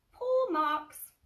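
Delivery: tiny excited piglet voice; excited squeak. Acted. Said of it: "little squeak of excitement".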